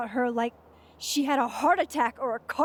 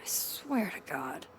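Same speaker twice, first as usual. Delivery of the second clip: whispering; 6 dB quieter, slower than usual. Acted. Exasperated aside.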